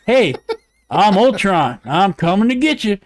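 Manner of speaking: lightly voiced mock Ultron impersonation; a hint of a put-on robot-villain voice. Podcaster mocking the replacement Ultron voice, lightly impersonated. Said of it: "Let me do my Ultron impersonation".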